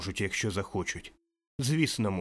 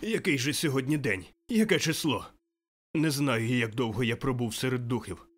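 higher, eager, bursting joy; childlike excitement; 3 semitones higher than usual. Acted. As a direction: marvel like a newborn child. Scrooge giddy like a newborn. (дитяча радість)

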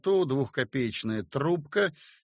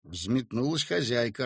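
usual speaking voice

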